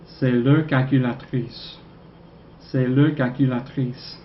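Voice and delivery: slow, careful French: C'est leur calculatrice; slow French model. Shown as a demonstration. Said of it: "This is their calculator".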